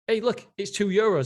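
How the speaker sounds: a half-playful take on a no-nonsense tycoon shrugging off complaints; hint of a blunt Irish CEO, dismissive; mocking the airline boss. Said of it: "That's what he said in his book".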